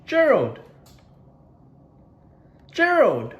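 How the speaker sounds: high, loud call for Gerald. Acted. Piggy calling out to her friend Gerald, high and loud. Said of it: "says Piggy".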